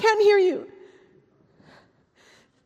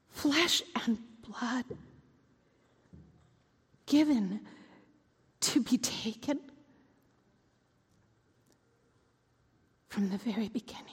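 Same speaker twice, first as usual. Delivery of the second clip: whisper; 6 semitones lower, 8 dB quieter than usual. Acted. Quiet realization.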